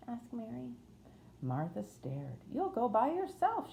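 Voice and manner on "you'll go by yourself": much higher-pitched Yorkshire housemaid; Yorkshire accent. A narrator's reading. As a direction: speak up high in broad Yorkshire. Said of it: "in a broad Yorkshire accent".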